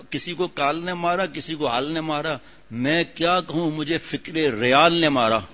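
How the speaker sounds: slow, measured recital of a couplet; slow sermon-style recitation of verse. Acted. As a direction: draw each line out like a recited poem. Reciting the couplet again, slowly.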